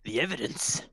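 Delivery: high, urgent ushering voice easing down; bustling constable. Acted. Constable leading detectives to the evidence, bustling urgency. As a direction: usher them along fussily.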